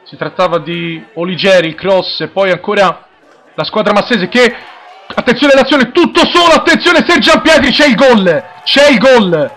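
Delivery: high, loud goal call shouted breathlessly; breathless italian goal commentary. Real, not acted. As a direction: scream the goal, rising with excitement. Commentator calls a goal live.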